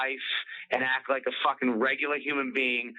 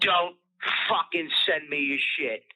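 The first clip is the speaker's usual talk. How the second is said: mock troll rant; 3 semitones higher than usual. Mocking an internet troll telling him off. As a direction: ham up the angry poster.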